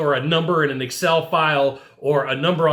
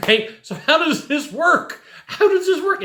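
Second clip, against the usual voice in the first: laughing, much higher, teasing the customer; playful laugh; 11 semitones higher than usual. Shown as a demonstration. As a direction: toss it back lightly with a laugh. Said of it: "you gotta be playful".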